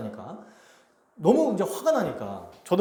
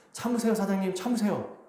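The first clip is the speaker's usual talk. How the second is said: earnest plea. Retold or imitated. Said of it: "정말 간곡하게".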